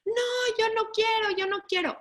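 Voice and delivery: put-on high, whiny scared child pleading no; high-pitched refusing little child; frightened child refusing. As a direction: whimper like a kid who won't go.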